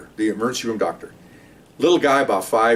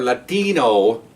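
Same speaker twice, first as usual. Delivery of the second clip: slow, exaggerated Latino pronunciation; mock him with a Latino inflection; drawn-out imitation of a Latino accent; much slower than usual. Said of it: "I'm saying this just to mock him".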